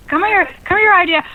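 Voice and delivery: high, playful calling; coaxing the idea. Pretend. Hunting for a forgotten tip, coaxing it back in a high voice. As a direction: call a lost thought back like a pet.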